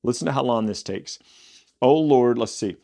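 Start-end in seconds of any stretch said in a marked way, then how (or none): 1.8-2.4 raised, louder call to the Lord; praying aloud. Acted. Elijah calling on the Lord before the people, louder. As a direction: open the prayer with a loud cry.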